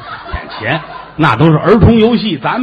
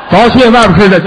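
coaxing parent; 5 semitones higher, 6 dB louder than usual. Retold or imitated. Parent tricking child with fake seaweed.

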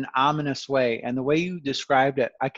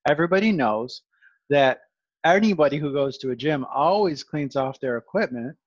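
sarcastic. Pretend. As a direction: feign total belief in an obvious fiction. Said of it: "this is my sarcasm tone".

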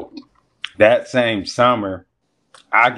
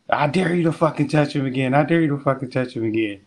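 retold threat; 5 semitones higher, faster than usual. Wife threatens in retold quarrel.

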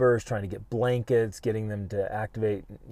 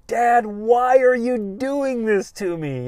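put-on much higher, louder, slow pleading little boy; a high, drawn-out child's cry of betrayal; hurt child's plea; 13 semitones higher, 7 dB louder, slower than usual. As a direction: beg your dad through tears like a small boy. Son pinned down crying to dad.

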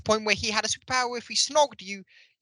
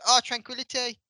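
higher-pitched mock bewilderment; Bradley Walsh, dazed; 5 semitones higher, 3 dB louder than usual. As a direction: lightly imitate a dazed actor. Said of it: "as if he's dazed".

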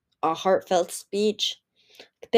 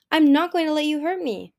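higher, louder protest; defiant shout; 7 semitones higher, 5 dB louder than usual. A narrator's reading. Moon refusing to be hurt, shouting defiantly. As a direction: stand your ground loudly. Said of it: "she shouted at Anemone".

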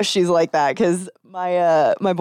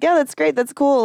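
fake enthusiasm; 8 semitones higher than usual. Mock enthusiasm at boyfriend's talk.

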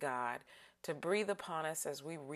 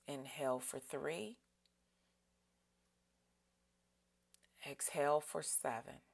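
breathing cue; 5 dB quieter than usual. Shown as a demonstration. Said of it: "let's breathe in".

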